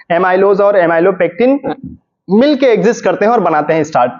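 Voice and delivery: repeated word by word, very slowly; slow dictation. Shown as a demonstration. Teacher repeating for students, slow and deliberate. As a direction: spell it out slowly so students can note it down. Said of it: "repeats the sentence slowly".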